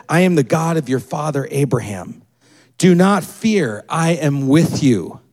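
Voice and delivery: a deep calm voice of God; God's voice. Retold or imitated. God speaks to Isaac.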